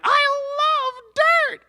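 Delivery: Ruby gushing with cartoon delight; squeaky Ruby voice. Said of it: "Ruby was like".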